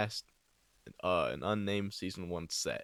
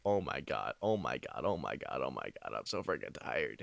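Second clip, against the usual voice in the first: drowsy; 8 semitones lower, 7 dB quieter than usual. Pretend. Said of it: "he was like".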